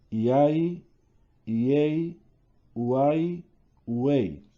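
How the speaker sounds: iai, iei, uai, uei, each three vowels glided as one syllable; triphthongs in one beat. Shown as a demonstration. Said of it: "se pronuncian en un solo golpe de voz".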